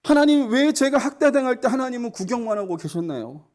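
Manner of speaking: acted-out aggrieved demand; confronting God. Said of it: "라고 하면서 막 따졌어요".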